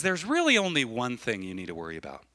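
unhurried, settling quoted reassurance; measured, compassionate teaching; calm counsel. Retold or imitated. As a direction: start lifted, then let it sink gently. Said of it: "He was compassionate to her".

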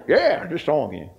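put-on Missouri farmer accent; Laddie McDonough. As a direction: imitate a folksy Missouri preacher. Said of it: "That's exactly how he sounded".

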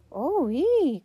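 high, loud two-note holler; boy's high hooting call. A narrator's reading. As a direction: call out into a big empty room. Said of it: "called one of the boys".

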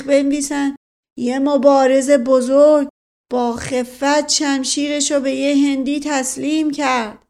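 outraged shouting. A narrator's reading. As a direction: cry out in wounded pride. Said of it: "دایی جان فریاد زد".

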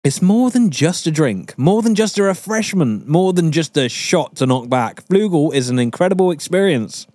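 reading out ad copy; mock marketing read. Shown as a demonstration. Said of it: "please read the marketing bullshit".

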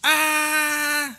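long, high held "aah"; demonstrated church yell. Shown as a demonstration. Churches that yell instead of preaching Christ, demonstrated long cry. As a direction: hold a high, steady mock cry. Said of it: "se ponen a gritar en la iglesia".

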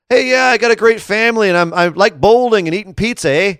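high-pitched, hammed-up Canadian accent; Kevin Owens impression. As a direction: parody a cheery Canadian family man. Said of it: "Is that the Kevin Owens we're getting?".

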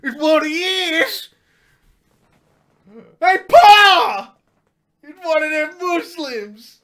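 hollered, high redneck alarm; mock redneck yell. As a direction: shout it like a panicked caricature redneck. Mock redneck spotting Muslims.

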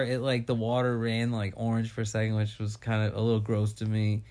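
low, spaced-out stoned voice; stoner. Real, not acted. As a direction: drift off while high. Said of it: "He is high".

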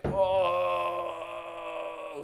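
long drawn-out mock moan of pain; one sustained, held groan, acted out; pained howl. Patient on the toilet retelling agony, mock pained howl. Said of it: "like, screaming in pain, howling in pain".

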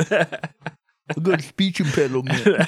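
high, slow duck voice; Donald Duck voice. Acted. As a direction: quack it out like a cartoon duck. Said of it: "'cause that was great".

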